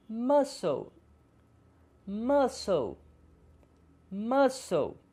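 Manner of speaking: muscle said as masol; silent c. Shown as a demonstration. Teacher models muscle with silent c. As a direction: skip the c in muscle. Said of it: "consoantes muda no meio".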